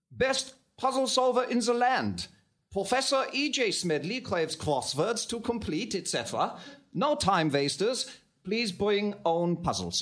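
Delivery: slow, careful German accent with v for w; German-accented English reading. Shown as a demonstration. Baron reads the paper aloud in German accent. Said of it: "But I do the accent better".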